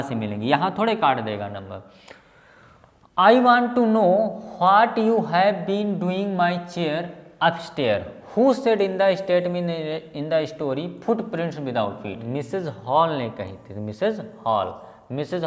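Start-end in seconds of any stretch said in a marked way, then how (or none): 3.2-12.2 reading out a question. Real, not acted. Teacher reads an exam question to students, slow read-aloud.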